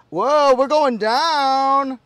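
long, drawn-out loud whoa; high, loud, stretched-out playful alarm; mock falling cry. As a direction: call out slowly as if sinking. Playing along as the seat lowers.

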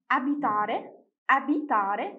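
Italian word read out clearly with a rising end; word-list demonstration. Shown as a demonstration. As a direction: model "أبيتاري" for learners, lifting the last syllable. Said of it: "نبدأ نقرأ الكلمات".

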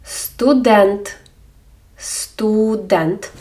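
студент drawn out, clear у and е; careful Ukrainian word. Shown as a demonstration. Teacher models студент for learners. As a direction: say студент slowly. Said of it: "Або".

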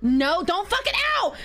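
first burst of alarm; panicked warning. Real, not acted. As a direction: yell a warning at the ball. Begging the ball.

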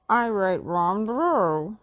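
slow sheepish dog speech; guilty admission; Scooby-Doo voice. A narrator's reading. Scooby confessing to the gang, slow and sheepish.

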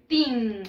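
put-on "tin" drawn out as English teen; a lengthened "tin" that rhymes with seen; "teen" pronunciation. Shown as a demonstration. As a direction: model "tin" with a long ee and held n. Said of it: "Y se pronuncia".

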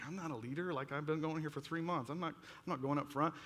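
reluctant. Retold or imitated. Teen balking at leader's call.

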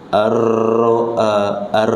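ar with a trilled, bouncing r; wrong rolled r. Shown as a demonstration. Teacher showing students the wrong rolled r. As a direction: demonstrate the r rolling that must be dropped.

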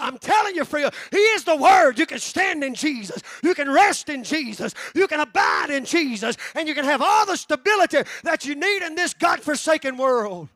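loud, rising preacher's cry; hammering each line home loudly; fiery preaching. Real, not acted. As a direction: preach it out full force to the congregation. Preacher building to a climax.

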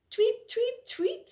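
high chirpy tweeting; baby bird tweets. Acted. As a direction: chirp like little birds. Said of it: "said the three".

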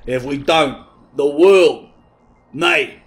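rally them like a blustering colonel; dramatic old general. Acted. The general warns of the world ending, pompously.

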